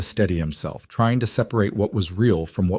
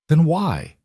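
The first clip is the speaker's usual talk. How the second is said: pitched-up demand as control slips; losing control, higher and urgent; voice rising; 8 semitones higher than usual. A narrator's reading. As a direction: let the question climb high. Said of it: "his voice rising".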